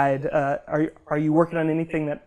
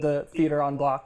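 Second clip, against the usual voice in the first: French accent. Shown as a demonstration. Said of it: "with enough of a French accent".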